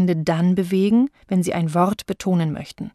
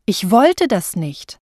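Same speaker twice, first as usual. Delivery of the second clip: wollte pressed louder, slow delivery; stress on wollte; 3 dB louder, slower than usual. Shown as a demonstration. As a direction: lean on wollte. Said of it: "wenn sie ihn unterschiedlich betonen".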